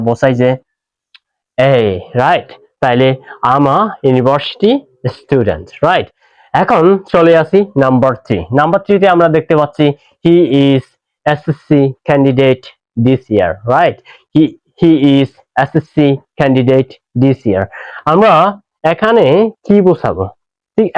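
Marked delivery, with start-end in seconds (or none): 3.5-5.7 slow model sentence. Shown as a demonstration. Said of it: "slow model sentence". 10.2-13.5 slow model sentence. Shown as a demonstration. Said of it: "slow model sentence". 14.3-17.6 slow model sentence. Shown as a demonstration. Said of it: "slow model sentence".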